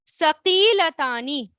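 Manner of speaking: ثقیلتانی said slowly and clearly; slow model word. Shown as a demonstration. Teacher introduces the new word to students, slowly. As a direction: say ثقیلتانی carefully, a little slow. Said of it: "پھر کیا آتا ہے؟".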